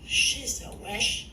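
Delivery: slow, breathy reversed-sounding syllables; backwards speech. Pretend. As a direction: mimic the reversed playback syllable by syllable. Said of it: "I'm gonna focus on each syllable".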